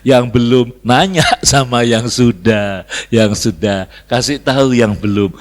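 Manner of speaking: low, firm and loud, unruffled; calm pronouncement. Acted. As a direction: announce it slowly with calm authority. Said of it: "Dengan tenang Abu Nawas berkata". (tenang, rendah, mantap dan lantang)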